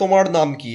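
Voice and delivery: তোমার as "tomaṛ", with a flapped final R; band-singer pronunciation. Retold or imitated. Mimicking how band singers pronounce it, তোমার with a ড় sound. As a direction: turn র into ড় in তোমার. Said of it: "এরকম করে উচ্চারণ করে".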